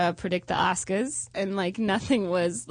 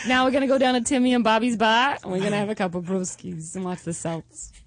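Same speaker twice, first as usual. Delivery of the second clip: put-on Boston accent. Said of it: "Just do that accent?".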